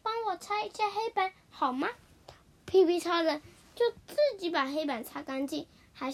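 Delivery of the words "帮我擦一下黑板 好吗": imitating request. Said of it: "学着屁屁超人的口气说".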